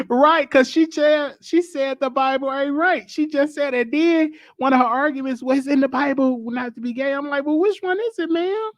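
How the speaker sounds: high-pitched, squealing amused recap; laughing while talking. Real, not acted. Host agreeing with supportive caller, laughing. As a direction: talk through laughter, voice climbing high.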